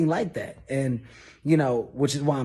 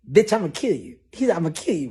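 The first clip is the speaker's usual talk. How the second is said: higher and louder threat; threatening roar; 5 semitones higher, 5 dB louder, much faster than usual. Retold or imitated. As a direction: threaten to kill. Boss threatening.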